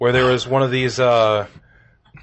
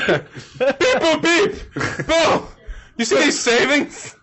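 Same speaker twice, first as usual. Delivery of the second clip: very high-pitched beeping robot; much slower than usual. Acted. Robot pointing guard to mall savings, high robot voice. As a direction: squeak it out like a toy robot. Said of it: "robot voice".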